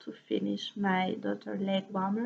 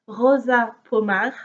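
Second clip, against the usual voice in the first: Rosa Pomar said in French; French accent; 5 dB louder than usual. Shown as a demonstration. French knitter naming a Portuguese brand her own way, French accent. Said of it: "I'm just going to say it in French".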